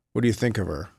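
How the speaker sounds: "What do you think of her?" low and falling, no questioning lift; said as a statement. Shown as a demonstration. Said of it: "I said it as a statement".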